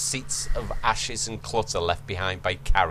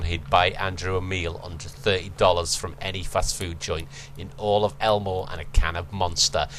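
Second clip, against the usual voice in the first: ordinary talk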